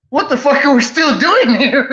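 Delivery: high-pitched, amused retold panic; laughing mock alarm. Brother wants to leave the roadside, retold laughingly. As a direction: laugh through the imitated protest.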